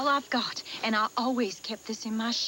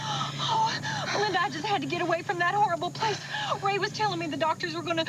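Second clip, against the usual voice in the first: distressed; 6 semitones higher than usual. Acted. Runaway fleeing the hospital, distraught.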